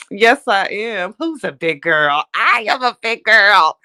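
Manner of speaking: put-on slow, high cooing baby-talk voice; baby talk praise. Praising herself for a long stream in baby talk. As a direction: coo at yourself like praising a toddler. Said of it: "praising herself like a baby".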